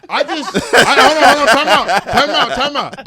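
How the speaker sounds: loud, flustered call for a time out. Real, not acted. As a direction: stop everything, laughing and embarrassed. Startled he overshared, calls time out.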